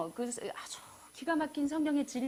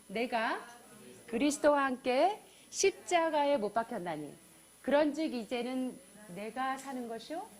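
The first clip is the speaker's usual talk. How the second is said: scripture recitation. Acted. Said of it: "우리 같이 한번 해볼까요?".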